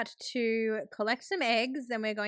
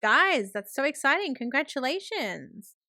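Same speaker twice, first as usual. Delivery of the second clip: higher, delighted congratulating voice; excited congratulations; 3 semitones higher than usual. Acted. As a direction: play a dad thrilled by the news. Acting dad hearing engagement news.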